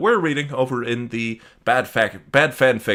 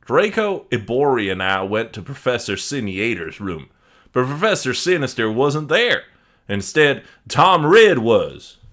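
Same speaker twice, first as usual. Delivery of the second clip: fake Italian accent; 5 semitones higher, 4 dB louder than usual. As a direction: read in a put-on Italian accent. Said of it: "if you wanna stop the accent".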